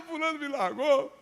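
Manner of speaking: high-pitched mock panic; hammed-up girlish distress; panicked girl. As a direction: imitate a frantic, jilted teenager. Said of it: "Aí a menina apavorada".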